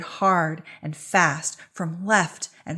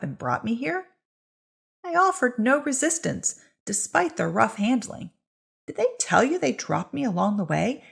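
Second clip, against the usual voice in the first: raised, indignant voice of the bound woman; accused witch pleading; 4 semitones higher than usual. Acted. Marta defends herself to the crowd, indignant and pleading. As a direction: argue your innocence from the pyre.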